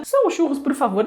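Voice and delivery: lightly voiced childish plea; imitating Chaves pleading. Husband mimicking Chaves begging for a churro, mock pleading. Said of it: "Aí ele vem do outro lado".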